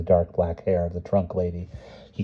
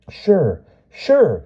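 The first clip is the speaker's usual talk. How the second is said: put-on high, eager boy's voice; a little boy nodding, thrilled; boy's voice, breathless with excitement; 10 semitones higher, 5 dB louder than usual. A narrator's reading. Johnny eagerly imagines replying.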